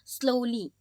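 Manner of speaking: "स्लोली" ending in a lee sound; final Y as lee. Shown as a demonstration. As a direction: end "स्लोली" on a clear "ली". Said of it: "ली की sound में". ("स्लोली" के अंत में ली की आवाज़)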